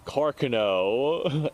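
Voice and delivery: Carcano said slowly, first syllable stressed, CAR-kuh-no; alternate pronunciation. Shown as a demonstration. Offering the rarer way to say Carcano, slow and deliberate. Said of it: "I've seen that pronounced a couple of times".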